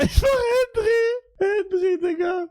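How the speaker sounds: high, eager cry of the name; excited recognition. Real, not acted. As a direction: call the name out the moment it clicks. (aufgeregt hoher Ausruf des Namens)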